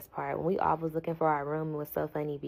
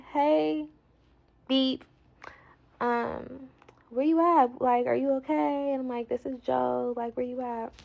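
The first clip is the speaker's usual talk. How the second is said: high worried calling; 7 semitones higher, 4 dB louder than usual. Retold or imitated. Worried call to lost friend.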